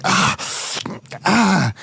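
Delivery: acted groans of pain. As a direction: groan as if nursing a wound. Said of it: "he's holding his wounds".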